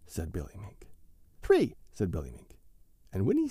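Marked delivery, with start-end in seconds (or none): 1.4-1.7 high, loud final count; countdown climax. A narrator's reading. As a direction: launch everyone in. Counting to dive.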